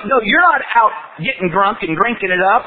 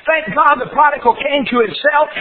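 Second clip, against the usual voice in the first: ordinary talk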